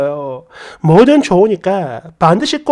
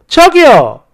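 mock call after him, a bit louder; calling a stranger back, slightly raised; 3 semitones higher, 4 dB louder, slower than usual. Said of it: "이러면서 불렀더니".

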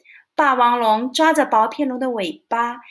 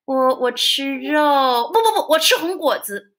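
flustered lie. Acted. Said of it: "不由得撒了个谎".

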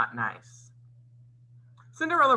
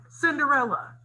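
high-pitched storybook call, only a little louder; shouted; 13 semitones higher, 3 dB louder than usual. A narrator's reading. Stepmother summons Cinderella from downstairs, shouting high. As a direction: call out for someone in another room. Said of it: "her stepmother shouted".

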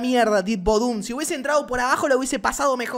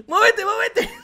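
high shout breaking into laughter; laughing shout; 10 semitones higher, 4 dB louder, slower than usual. Real, not acted. Gamer shouting at his character, then laughing. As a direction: yell then crack up.

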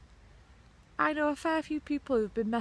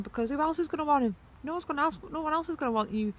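scornful rant; 7 semitones higher, faster than usual. Real, not acted. Venting about cheating man.

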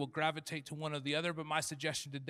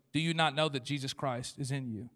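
real question; 3 semitones lower than usual. Shown as a demonstration. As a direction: ask it plainly, for real. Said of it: "that was not a rhetorical question".

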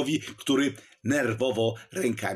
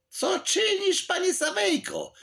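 high, shocked outcry; startled exclamation. A narrator's reading. Czarnota cries out as Sawejko stabs the portrait. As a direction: cry out in alarm at the stabbing. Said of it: "wykrzyknął Czarnota".

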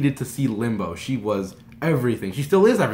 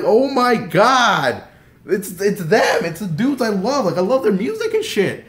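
high, loud fan outburst; excited fan; 8 semitones higher, 6 dB louder, slower than usual. Retold or imitated. Fan spotting favorite musicians hanging out, excited. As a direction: gush loudly, stretching the opening.

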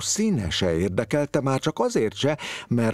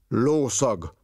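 a touch of triumph, a bit higher; triumphant; 4 semitones higher than usual. A narrator's reading. Investigator sniffs the hallway, mildly triumphant. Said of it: "mondta diadalmasan".

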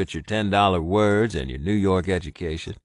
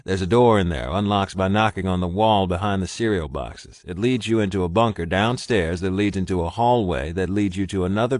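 louder, urgent, steady orders; urgent commands; 5 dB louder than usual. Acted. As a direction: get him to safety now. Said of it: "he commanded his mate".

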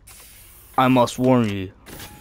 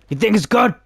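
mocking high squeaky voice; 10 semitones higher, 3 dB louder, faster than usual. Shown as a demonstration. Gamer mocking the line in a squeaky voice. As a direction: pitch it way up, mocking. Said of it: "repeat in put-on high voice".

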